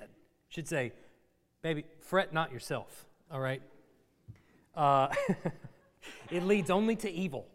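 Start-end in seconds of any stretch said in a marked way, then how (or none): 1.6-3.1 put-on softer, hushed "Baby, fret not yourself"; mock tender husband. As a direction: gently soothe an upset wife, half joking. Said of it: "that's what you should say instead".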